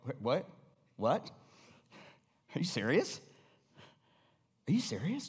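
mildly incredulous, rising questions; understated stunned questioning; acted disbelief. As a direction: play baffled, with pauses to take it in. Moses reacting to the complaint.

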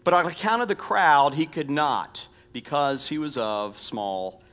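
measured, deliberate Bible reading; preacher reading scripture aloud. Acted. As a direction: read the passage aloud, drawing out key phrases. Reads scripture aloud to congregation.

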